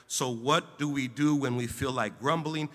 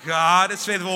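loud repeat; 5 semitones higher, 11 dB louder than usual. Real, not acted. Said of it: "Say that again".

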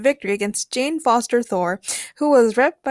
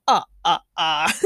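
mock vampire laugh; 6 semitones lower than usual. Mock vampire laugh after vampire tease.

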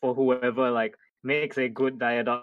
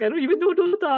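put-on clueless girl; 5 dB louder, faster than usual. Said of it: "She's like".

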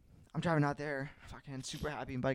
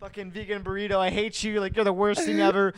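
comic re-enacted rant, pitched up; higher-voiced, hammed-up tirade of insults; cursing at burrito; 5 semitones higher than usual. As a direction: curse out your food in mock fury. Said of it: "I'm cursing at my burrito the whole time".

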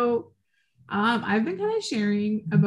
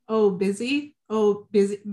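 mocking; 3 semitones lower, 3 dB louder than usual. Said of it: "he was like".

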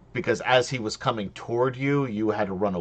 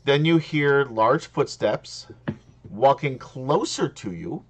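game master scene setting; 4 semitones higher, 3 dB louder, slower than usual. Acted.

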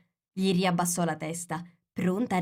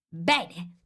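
mildly raised, curt approval; yelled. A narrator's reading. Queen answers the soldiers, yelling mildly. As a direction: call it out with some force. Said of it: "urlò la regina".

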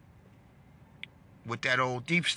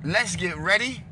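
rallying shout; 4 semitones higher than usual. Real, not acted. Rallying Republicans to fight.

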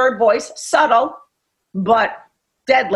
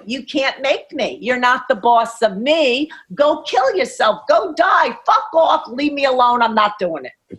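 mock teen brat, defiant and snapping, rising on the insults. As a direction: coach imitating her defiant teen daughter as a mock brat, snapping back. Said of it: "the brat voice is the defiant one".

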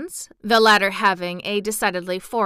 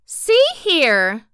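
higher, louder firm opener; determined; 7 semitones higher, 8 dB louder than usual. Acted. Dorothy confronts the townsfolk, firm and determined. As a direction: stand up for your pets. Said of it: "determined to defend her pets".

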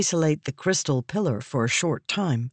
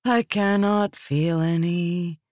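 resigned; 2 semitones higher, slower than usual. A narrator's reading. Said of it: "the sibling said with a resigned tone".

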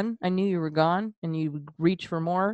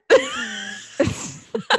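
real laugh bursting out; real laughter. Real, not acted. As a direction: crack up mid-line. Teasing partner.

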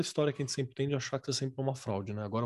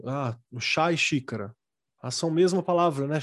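put-on child's voice; 3 dB louder than usual. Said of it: "uma criança chega pra você e fala assim".

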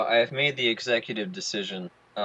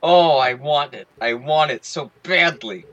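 1 excited; 2 semitones higher, 6 dB louder than usual. Real, not acted. Craving transatlantic Transformers.

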